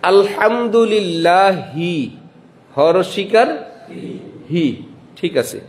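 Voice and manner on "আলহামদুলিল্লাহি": আলহামদুলিল্লাহি drawn out slowly; slow careful recitation. Shown as a demonstration. A preacher teaching students the Arabic sounds, with slow careful recitation. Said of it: "লিখতে হবে".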